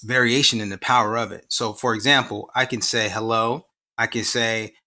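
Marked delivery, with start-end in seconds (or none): 3.1-3.7 "hello" lightly lilted up at the end; varied hello. Shown as a demonstration. Professor showing one word carries different messages, rising hello. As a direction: say "hello" with a small rising tune. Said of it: "same words, different message".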